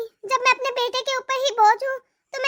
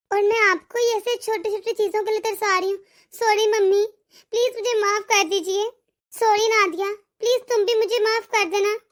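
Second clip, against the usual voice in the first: lower, pleading sorry; remorseful apology; 4 semitones lower than usual. Acted. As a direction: beg forgiveness, lower, with real regret. Bhabhi apologises to mother. (पछतावे से भरी धीमी, नीची आवाज़ में माफ़ी)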